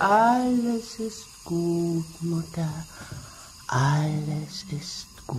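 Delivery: calm her down gently, slowly; soothing. Acted. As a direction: daughter hushing her frightened mother. Daughter soothing sick mother.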